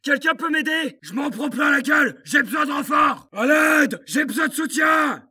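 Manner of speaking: yelling for backup under fire; urgent shouting. Acted. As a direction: shout for help, pressed. Soldat appelle des renforts sous le feu. (appel à l'aide crié)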